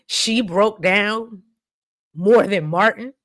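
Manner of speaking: high, broken laugh into slow words; teary laugh. Real, not acted. To her viewers, moved by the scene, teary laugh. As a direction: laugh through the tears, slow. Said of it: "y'all, it got me".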